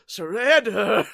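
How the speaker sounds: put-on childlike voice. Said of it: "he sounds like a child".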